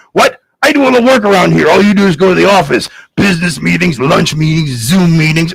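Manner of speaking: quick, hammed-up complaint; mock bickering. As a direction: rattle off the grievances in a mock quarrel. Giants arguing about housework.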